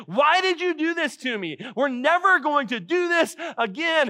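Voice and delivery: mock labour-pain yell at the husband; mock scream. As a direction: play the furious mother in childbirth, lightly. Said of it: "she screams at her husband".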